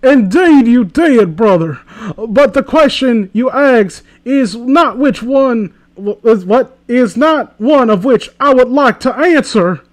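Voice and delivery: slow, pompous, affected; pretentious. Acted. Reading the fanfic hero aloud, pompous and slow. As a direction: talk down like a fop. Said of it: "Why do you talk like that?".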